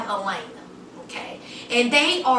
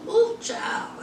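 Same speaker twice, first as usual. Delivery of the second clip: breathy ooh; 10 semitones higher than usual. Real, not acted. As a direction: gasp it out in disbelief. Reacting in disbelief.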